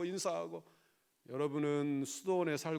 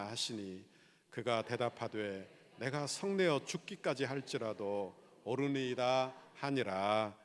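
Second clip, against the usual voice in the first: slow, lower measured Bible reading; scripture reading; 3 semitones lower than usual. A narrator's reading. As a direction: read the verse solemnly, drawing out phrase endings. Reads the Bible verse aloud. (느리고 낮게 성경을 낭독하듯)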